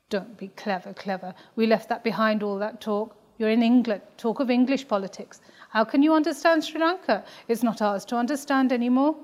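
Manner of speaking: lightly voiced mother telling her off; scolding mother.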